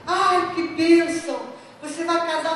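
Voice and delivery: delighted. Retold or imitated. Friend delighted by wedding news.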